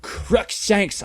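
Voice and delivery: hammed-up shout; shouted name. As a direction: yell it at him. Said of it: "I shouted at him".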